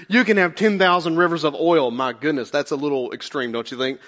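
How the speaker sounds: mildly sarcastic, dropping to dry understatement; lightly mocking, mock-reasonable; Micah's sarcasm. Prophet mocking excessive offerings, mildly sarcastic. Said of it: "can you hear the sarcasm in Micah's voice".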